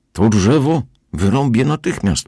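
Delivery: stanowcze, podniesione oświadczenie; oświadcz to wysoko i z naciskiem, bez sprzeciwu; stanowczość. A narrator's reading. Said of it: "powiedział stanowczo". (stanowczy ton pana)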